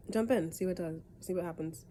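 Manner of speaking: blocked nose from a cold; talking through a stuffy nose. Real, not acted. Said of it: "I sound stuffy and stuff".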